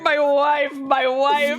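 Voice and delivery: lightly voiced besotted husband; drunk adoring papa. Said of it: "thrashing around in his bed going".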